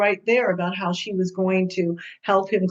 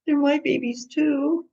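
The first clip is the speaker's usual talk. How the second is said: imitating tearful father; 8 semitones higher than usual. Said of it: "I can hear him saying that".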